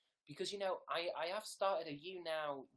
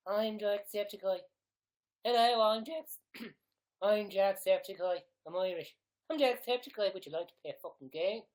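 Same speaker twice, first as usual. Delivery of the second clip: loud, high, exaggerated Irish accent; Jacksepticeye; 4 semitones higher, 10 dB louder than usual. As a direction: shout the introduction in a mock Irish brogue. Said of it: "I have to declare who I am".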